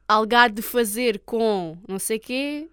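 slow Olhão accent, imitated; grandmother's Olhão accent. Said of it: "ela fala mesmo com um sotaque".

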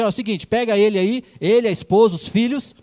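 king ordering guards to sell the servant's family. Acted. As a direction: give the guards a curt royal order. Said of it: "chamou os guardas e falou assim".

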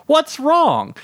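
high-pitched wifely shout; worried yell. A narrator's reading. Wife at the door to husband, yelling. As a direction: call it out high from the doorway. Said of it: "my wife Samantha yelled from the door".

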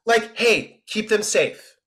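offhand mock line reading, no screaming; throwaway. Shown as a demonstration. Director showing the actor a toned-down take, throwaway. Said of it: "just a little bit more throwaway".

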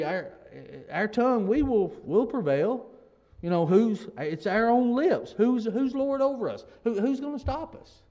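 imitated boasting, rising in pitch; boastful and proud. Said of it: "They're boastful. They're proud".

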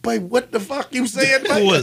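mock country islander; island bush accent. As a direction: Bahamian bush talk. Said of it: "really talk like".

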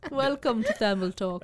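put-on British-accented show welcome, amused; joking British podcast greeting; mock British accent. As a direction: play the British host, half laughing. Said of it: "the British edition".

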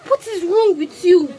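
scolding Nigerian parent. Retold or imitated. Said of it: "Every Nigerian parent".

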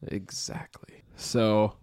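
blocked nose, congested voice; stuffy nose. Real, not acted. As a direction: talk through a stuffy nose. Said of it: "I'm very stuffy".

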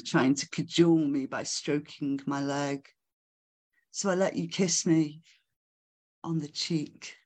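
measured, deliberate spoken-word delivery; poetry recital. Acted. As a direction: read the poem phrase by phrase, letting pauses hang. Recites own poem to audience.

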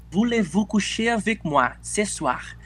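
slow, careful French: "Voulez-vous coucher avec moi ce soir?"; French phrase. Shown as a demonstration. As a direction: spell out the French slowly. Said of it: "me ensina alguma coisa em francês".

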